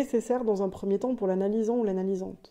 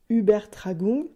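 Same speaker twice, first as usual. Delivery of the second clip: Übertragung said in a self-conscious German accent, a bit louder; 5 dB louder, slower than usual. Shown as a demonstration. Podcast host quoting the German term for listeners, German accent. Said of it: "désolé pour mon accent allemand".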